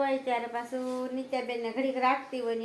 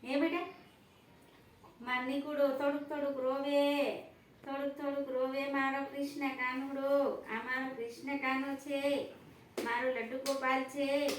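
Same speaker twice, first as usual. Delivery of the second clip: tender cooing; 3 dB quieter than usual. Real, not acted. Mother soothing her crying baby with pet names, tender cooing. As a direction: coo pet names softly.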